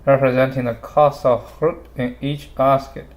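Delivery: barely moving the mouth; talking with mouth closed. Real, not acted. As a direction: lips nearly still while reading aloud. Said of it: "without moving my mouth".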